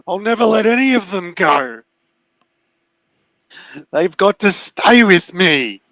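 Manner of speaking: very high, wailing monster voice; desperate, possessive bear; defiant bear. Acted. GM plays bear refusing to release captives.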